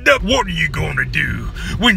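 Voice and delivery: loud, high growled wrestler-style promo; hyped trash-talk. Acted. Fighter taunting an opponent before a showdown, hyped holler. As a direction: holler a boast, drawing out the last words.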